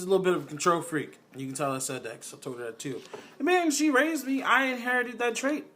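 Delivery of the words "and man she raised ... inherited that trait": high laughing voice, much louder. Real, not acted. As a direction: laugh through the words. Laughs about inheriting grandma's trait.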